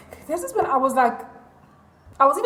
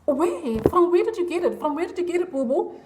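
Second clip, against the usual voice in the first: higher, pressing mock interrogation; retold disbelief; 5 semitones higher than usual. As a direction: press for an answer in playful disbelief. Retells questioning him, repeating herself.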